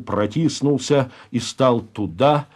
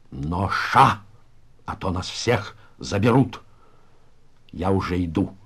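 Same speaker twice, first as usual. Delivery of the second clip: Pinya the староста, hushed resolve; 3 semitones lower than usual. Acted. Староста tells his comrades he will go first, hushed resolve. Староста Пиня даёт приказ.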